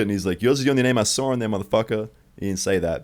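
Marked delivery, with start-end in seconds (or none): 0.4-2.1 quick, higher-pitched mock-angry accusation; retold anger. Cleaner accusing the pinned kid, mock-angry. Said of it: "but he was angry".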